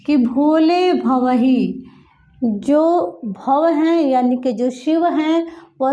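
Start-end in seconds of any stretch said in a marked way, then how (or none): 0.2-1.9 भोले drawn out slowly; slow, stretched delivery of भोले भवही; altered intonation. Shown as a demonstration. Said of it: "कंठ विकार के कारण कह".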